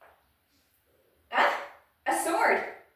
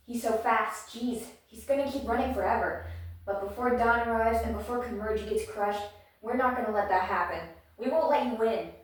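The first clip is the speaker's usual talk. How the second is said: determined; 6 dB louder than usual. Acted. Hero's determined speech.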